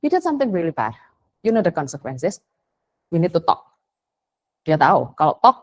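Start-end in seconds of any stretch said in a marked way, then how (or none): 0.0-3.6 relaxed, unhurried rebuke; calm teacher. Retold or imitated. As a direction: keep it easy, no heat in it. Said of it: "Mister Onggo ngomongnya nyantai kok". (teguran santai dan tenang)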